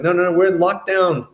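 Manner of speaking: high, emphatic no no no; the guard refusing flatly; firm refusal. Retold or imitated. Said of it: "He was like".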